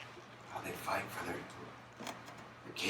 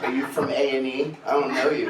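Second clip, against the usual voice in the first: mocking challenge; 4 semitones higher, 8 dB louder than usual. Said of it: "I asked that question".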